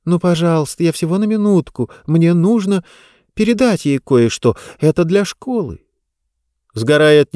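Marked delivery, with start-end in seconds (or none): 0.1-5.8 put-on pleading girl. Diba begs mother.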